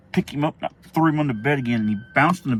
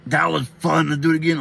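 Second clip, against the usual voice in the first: louder, higher, gleeful little brother; lightly voiced eager child; imitated excited kid; 5 semitones higher, 5 dB louder than usual. Little brother laughing after his fall, excited.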